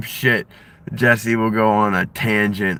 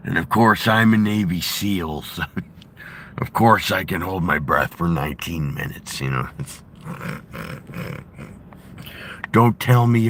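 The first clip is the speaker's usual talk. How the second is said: a hint of a gruff ex-wrestler, insisting; Jesse Ventura impression; 2 semitones lower than usual. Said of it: "I've been working on my Jesse Ventura".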